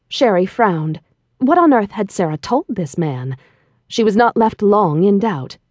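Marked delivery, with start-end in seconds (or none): none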